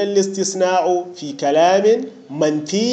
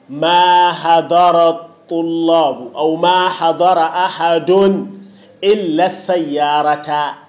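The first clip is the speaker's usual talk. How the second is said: slow example; slower than usual. Shown as a demonstration. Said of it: "أقول".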